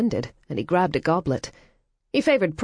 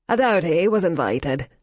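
put-on Yorkshire accent. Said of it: "in a broad Yorkshire accent".

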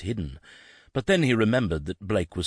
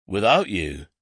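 exclaiming; 3 semitones higher, 5 dB louder than usual. Acted. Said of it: "Blake exclaimed".

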